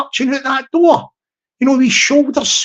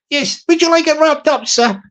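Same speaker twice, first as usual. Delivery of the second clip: higher fawning shop assistant voice; eager service voice, pitched up; higher shop server; 5 semitones higher than usual. Retold or imitated. Shop server offering to wrap the hat, higher eager voice.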